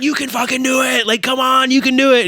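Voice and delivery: high-pitched, urging encouragement; imitated cheering. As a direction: cheer her on like an eager crowd. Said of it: "cheering her on".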